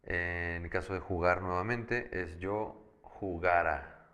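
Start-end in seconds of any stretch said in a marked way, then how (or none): 2.4-4.1 jugara with the weight on GA; slow, clear "jugara", stressed on the second syllable; stress on the middle syllable. Shown as a demonstration. Teacher models the verb for a student, stress on GA in jugara. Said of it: "Ojo cómo lo estoy pronunciando".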